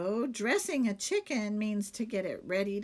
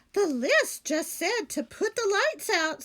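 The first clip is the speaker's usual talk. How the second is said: higher, louder innocent maid; 9 semitones higher, 6 dB louder than usual. Acted. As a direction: explain it brightly, innocently. Amelia Bedelia character voice.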